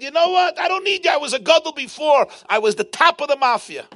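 high-pitched, heated mock outburst; defiant dismissal. Student telling his teacher he is not needed, defiant.

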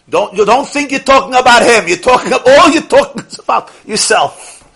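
loud, high scolding; firm rebuke. Retold or imitated. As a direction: set the gossiper straight, pointedly. Rabbi rebukes a gossiper.

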